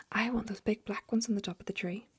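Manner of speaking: a stage-whispered bellow; whispered shout. Acted. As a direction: Duke ordering the gardener, mock shouting. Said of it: "the man was shouting".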